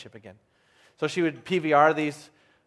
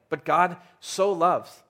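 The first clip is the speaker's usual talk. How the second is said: slow, drawn-out "so"; stress on SO; slower than usual. Shown as a demonstration. Preacher setting God's love against deserved punishment, stretched "so". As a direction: dwell on "so" before "loves". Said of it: "There's an emphasis in this verse".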